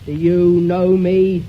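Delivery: slow, loud hollow spooky voice. Shown as a demonstration. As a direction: intone it slowly, hollow and loud. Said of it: "in a hollow voice".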